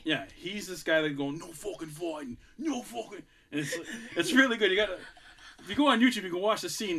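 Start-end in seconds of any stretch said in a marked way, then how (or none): 1.4-3.2 put-on mild Irish English accent. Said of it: "Irish English accent".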